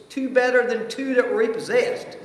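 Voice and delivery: laughing. Real, not acted. Laughs at God's surprise gift.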